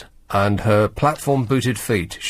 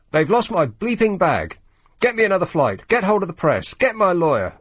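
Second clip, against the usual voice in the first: mock demand; 5 semitones higher than usual.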